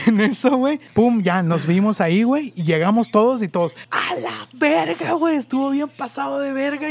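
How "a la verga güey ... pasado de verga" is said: excited. Retold or imitated. Friends cheering after escape.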